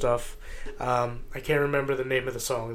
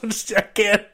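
laughing through the words; giggling, can barely get it out; 8 semitones higher, 9 dB louder than usual. Real, not acted. Laughing while covering for friend.

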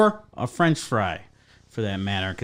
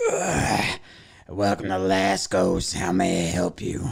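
mock bored waitress; 6 semitones lower, slower than usual. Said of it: "they walk up to you".

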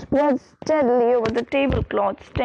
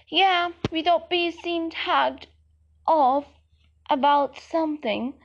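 darkly; 4 semitones higher than usual. Acted. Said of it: "said Ron darkly".

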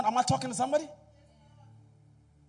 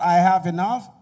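shout; 2 semitones lower, 13 dB louder than usual. Shown as a demonstration. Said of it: "Say it like you mean it".

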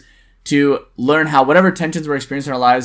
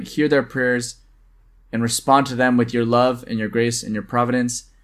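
prayerful blessing. Acted. Deacon blessing the co-host and listeners in a measured prayer voice.

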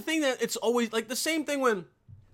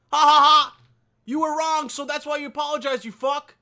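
loud taunting laugh, then a higher sneering jab; hammed-up mockery of the apology crowd; mocking gloat; 6 semitones higher, 7 dB louder than usual. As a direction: gloat over them with a cackle. Mocking the people who apologized.

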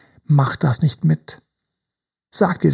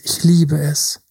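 ordinary talk, nothing marked

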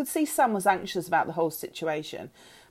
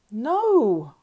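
raised, drawn-out earnest no; honest denial; 5 semitones higher, 5 dB louder than usual. A narrator's reading. Girl reassuring mother, honest. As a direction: deny it openly and earnestly. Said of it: "I said honestly".

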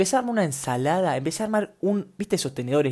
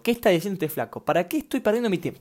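imagined listener; 5 semitones higher than usual. Retold or imitated. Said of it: "la cabeza está diciendo".

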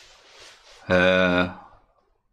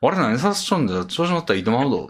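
yakuza menacing drawl; faster than usual. Retold or imitated. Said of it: "相手を威嚇せなあかんから".

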